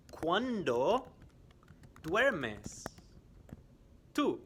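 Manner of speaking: slow and split up for learners; slow quiz question. Shown as a demonstration. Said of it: "I am going to ask some questions".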